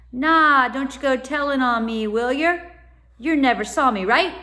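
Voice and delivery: loud, high cockney urchin warning; cockney growl. A narrator's reading. Boy warns Tom and Stella not to tell, loud cockney urchin. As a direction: warn them off, a scared street lad. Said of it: "he growled".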